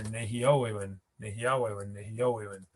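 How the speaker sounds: Nehiawe win stressed in the middle, third syllable from the end; shifted stress. Shown as a demonstration. Teacher repeating Nehiawe win to show shifted stress. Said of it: "now the stress is here".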